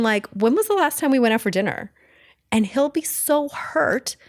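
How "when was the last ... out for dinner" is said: blunt, flat question with a harsh edge; curt dinner question that sounds like an accusation. Shown as a demonstration. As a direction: ask it bluntly, a little harsh. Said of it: "I'm really blunt".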